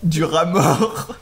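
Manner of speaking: slow, laughing through toffee; chewing sticky toffee. Real, not acted. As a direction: repeat it mouth stuck with toffee.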